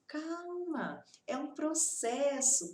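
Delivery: high, drawn-out soothing word; gently calm an anxious learner. Acted.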